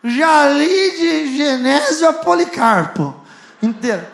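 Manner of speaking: lightly voiced drunk bragging; a hint of a tipsy know-it-all; drunk boast. Drunk man boasting he knows the whole Bible, lightly imitated. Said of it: "Todo bêbado assim".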